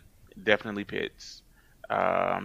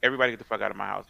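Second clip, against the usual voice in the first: retold threat; 5 dB louder than usual. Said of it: "I said".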